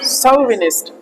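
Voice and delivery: सोविनिस्ट with an s sound, not the ch of चौविनिस्ट; सोविनिस्ट spelled out slowly, so-vi-nist; slow correct pronunciation. Shown as a demonstration. Teacher सही उच्चारण सिखाते हुए: सोविनिस्ट. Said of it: "असल में क्या होता है".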